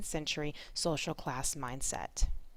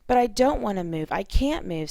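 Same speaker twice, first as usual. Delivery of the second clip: louder, pitched-up protest just short of a scream; almost screaming; 3 semitones higher, 8 dB louder than usual. A narrator's reading. Missus Manstey protests to Missus Black about moving, almost screaming. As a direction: read it as a restrained near-scream. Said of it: "almost with a scream".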